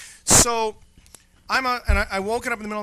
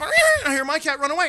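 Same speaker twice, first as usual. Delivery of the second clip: laughing; 9 semitones higher, 4 dB louder, faster than usual. Real, not acted. Storyteller laughing at cat fight.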